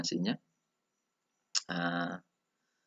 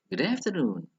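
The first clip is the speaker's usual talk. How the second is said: "Good afternoon" high in the middle, falling at the end; intonation drill; 8 semitones higher, 3 dB louder than usual. Shown as a demonstration. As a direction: lift "afternoon", then drop it. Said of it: "tidak, tidak sama ya intonasinya".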